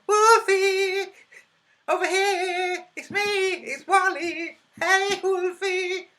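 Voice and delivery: very high, loud calling cartoon voice; shrill-free high call, like Wally waving from a crowd; Where's Wally voice. YouTuber calling out to Wolfie as Where's Wally, high and loud. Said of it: "Where's Wally?" impression".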